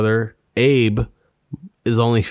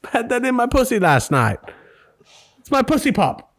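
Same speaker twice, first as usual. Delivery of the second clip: high-pitched squeaky falsetto; comic falsetto; mock granddaughter voice; 13 semitones higher than usual. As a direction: play the granddaughter in a silly high voice. Acting granddaughter in grandma story.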